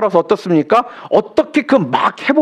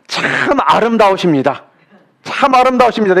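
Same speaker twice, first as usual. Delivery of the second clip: model compliment; 2 semitones higher than usual. Shown as a demonstration. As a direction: show them how to say 참 아름다우십니다 warmly. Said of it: "이렇게 말씀해 주세요". (옆 사람에게 건네는 따뜻한 칭찬)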